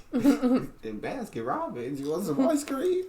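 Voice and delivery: laughing parody of the sweet offer; mock girly voice. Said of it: "that was just real funny".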